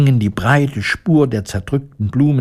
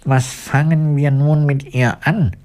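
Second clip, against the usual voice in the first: higher, anxious question of the tin woodman; worried; 6 semitones higher than usual. Acted. Woodman asking friends about sleeping Elli, worried and higher. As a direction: fret over the sleeping girl. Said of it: "fragte der Holzfäller besorgt".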